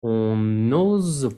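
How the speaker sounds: On n'ose pas désobéir slow, each syllable distinct, n'ose with a z. Shown as a demonstration. Teacher modelling On n'ose pas désobéir slowly. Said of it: "Bien pronunciar cada sílaba".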